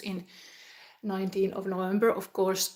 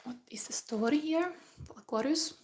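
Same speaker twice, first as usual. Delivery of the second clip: whisper; 3 semitones higher, 4 dB quieter than usual. Real, not acted.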